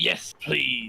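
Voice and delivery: weary, worn-down, tired, creaky voice. In a game, Kassir accepts a special arrow from the captain, tired Kassir voice. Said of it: "Kassir says in a kind of tired voice".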